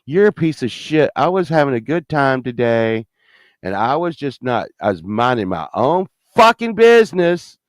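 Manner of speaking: indignant retort, mildly heated; mad at Death. Retold or imitated. Patient telling off Death, mildly indignant. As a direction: tell Death off with a touch of acted anger. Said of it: "I got all mad at Death".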